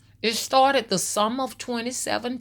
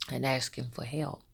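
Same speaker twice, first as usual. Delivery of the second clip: whisper; 7 semitones lower, 7 dB quieter than usual. Real, not acted. Confessing she missed the aunt's cries.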